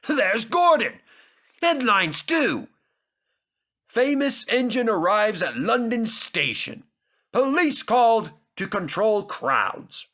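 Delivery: thrilled headline reading; excited reading aloud. A narrator's reading. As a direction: announce it with delight. Sir Topham Hatt reads excitedly.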